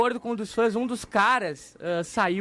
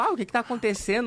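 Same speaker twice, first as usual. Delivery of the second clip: ordinary talk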